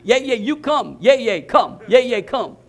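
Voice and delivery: firm, repeated mock child's demand; imitated insistent child. Granddaughter demanding that grandpa come, imitated insistence. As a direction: press grandpa like a little granddaughter. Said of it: "She meant it. She was for real".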